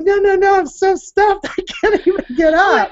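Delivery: hammed-up stuffed voice, refusing water; mock stuffed woman. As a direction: play someone too full to move. Imitating stuffed women refusing.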